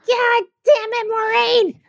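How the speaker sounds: high, slow "God damn it, Maureen"; mock exasperated Brit. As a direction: huff it like a fed-up husband. Acting a frustrated Brit.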